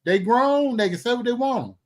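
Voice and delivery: solemnly disown all responsibility; mock disclaimer.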